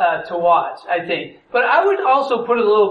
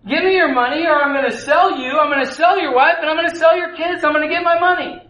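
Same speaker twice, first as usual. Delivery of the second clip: higher, rising angry threat; demanding king; 6 semitones higher than usual. Acted. King threatening to sell servant's family, higher and heated. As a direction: threaten him until he pays.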